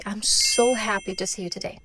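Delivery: "so happy" emphasized, felt; emphasis on so happy. Shown as a demonstration. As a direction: lean on "so happy" with warmth. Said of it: "vamos dar uma ênfase nesse so happy".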